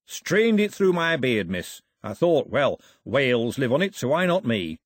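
lightly voiced plain-spoken seaman; a hint of a chatty sailor; cheerful old sailor. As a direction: tell your tale like a ship's cook.

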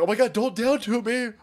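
very high squealing mock; mocking poster voice. Mocking Redditors fearing down toots, very high squeal. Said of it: "that they're like".

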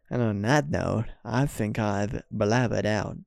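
put-on American-accented podcast sign-off, drawn out at the end. Host repeats the outro line to listeners, put-on American accent. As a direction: wrap it up in a mock American accent. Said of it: "in an American accent".

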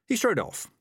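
ordinary delivery, nothing marked

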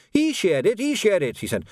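high, frantic blame-shifting; acted panic, pitch leaping up; panicked accusation. A narrator's reading. Quirk accuses the rookie.

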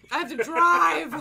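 loud, high, drawn-out wail breaking into laughter; exasperated yell. Retold or imitated. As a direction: wail it slowly, comically dismayed. Retells dismayed shout about driving.

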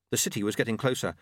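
plain reading voice

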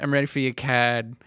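lightly imitated Boston accent; slight Bostonian accent. Quoting a coworker to a customer, slight Bostonian accent. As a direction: drop the r's for a mild Boston sound. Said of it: "in a slight Bostonian accent".

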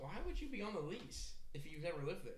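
questioning like an investigator; reporter voice. Acted. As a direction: play a probing interviewer. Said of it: "He's got his reporter voice on".

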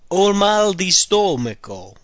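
slow, careful model phrase. Shown as a demonstration. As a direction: say each word clearly. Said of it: "The next one is".

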